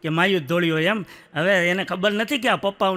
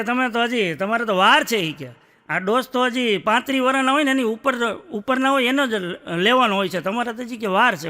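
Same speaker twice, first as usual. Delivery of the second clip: mock the nurse who waves him away, a bit higher; a touch of bossy nurse; 4 semitones higher than usual. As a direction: nurse insisting he is too young for the dose, mildly raised and bossy. Nurse scolds him in a quote.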